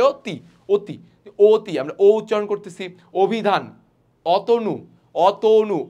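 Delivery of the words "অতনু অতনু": অতনু with the middle vowel a rounded o; o-sound in অতনু. Shown as a demonstration. Teacher showing students the o-vowel, clearly sounded অতনু. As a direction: say অতনু word by word, bringing out "to". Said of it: "ওকার আসতেছে না এখানে".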